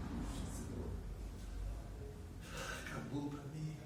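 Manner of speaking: soft broken whisper to God; a dying patient's prayer, a touch of whispered despair; mock tearful prayer. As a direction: whisper it as if on your knees in tears. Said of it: "vai cair em prantos e de joelho".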